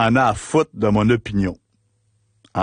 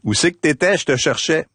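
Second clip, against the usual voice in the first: high, raised voice calling out; friend calling out; 6 semitones higher than usual. Retold or imitated. Friend asking where he was, high-pitched. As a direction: friend Marc hailing him in the crowd, high. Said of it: "Il me dit".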